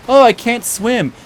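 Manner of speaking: high, slowish mock complaint; light, comical cry for help; Samwise, comic distress. Fan imitating cartoon Samwise in the water, comic distress. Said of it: "it's kinda played for laughs".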